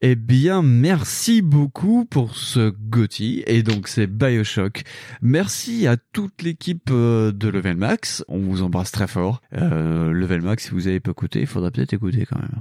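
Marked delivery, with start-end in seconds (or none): 0.1-8.2 hyped announcement. Acted. Closing thanks after award sketch.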